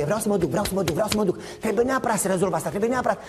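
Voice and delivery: a hint of fixated whining; obsessed insistence. Balaam fixed on going, mildly whiny insistence. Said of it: "așa de focalizat pe".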